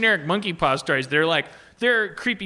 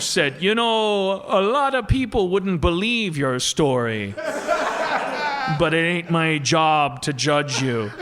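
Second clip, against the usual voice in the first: mock stoner storyteller. Mimicking a Canadian story teller.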